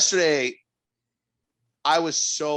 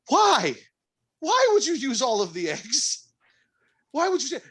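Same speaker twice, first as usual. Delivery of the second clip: replaying the confrontation with the cooks; mock exasperated demand, pitched high; retold exasperation; 12 semitones higher than usual. Retold confronting the kitchen staff.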